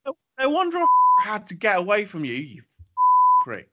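high, exasperated lashing out; angry retort. Real, not acted. Quarrel with co-host, swearing.

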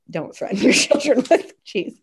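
half-whispered, giggling through it; whispered mock warning; laughing whisper. Real, not acted. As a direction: scold in a hushed laugh. Laughing scolding aside to listeners.

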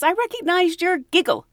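high, pleased voice; excited fan. Retold or imitated. Fan telling Betty she knew her giggle, high and pleased. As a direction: say it like a happy discovery. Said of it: "she goes".

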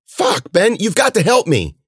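high, frantic urging; desperate plea. Acted. Cece hauling limp Ben up, desperate high cry. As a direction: plead urgently, voice pitched right up. Hauling injured friend, monsters coming.

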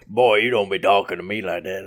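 mock-stern drawled warning; hammed-up "boy" reprimand; another put-on scold. Podcaster rebuking imagined critics, mock-stern character voice. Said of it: "That's a different one".

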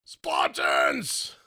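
whispered battle cry, low and rasping; Gerard Butler impression. Host showing off his Butler impression with a whispered war cry. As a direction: hiss a warrior's rallying cry. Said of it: "I can do a pretty good impersonation of him".

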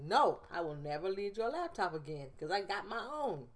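mock-proud, emphatic refusal; retold stubborn pride, lightly hammed up; prideful self. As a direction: dig your heels in, playfully haughty. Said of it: "my prideful self was like".

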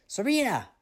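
sharp high call of the name; mother catching her daughter in the dark, sharp call. A narrator's reading. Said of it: "Her mother's face loomed".

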